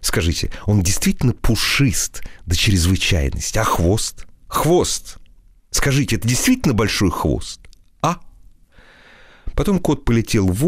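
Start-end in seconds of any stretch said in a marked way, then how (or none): 0.0-8.2 a lightly voiced fawning flatterer; ingratiating asking. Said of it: "заискивающе спрашивал".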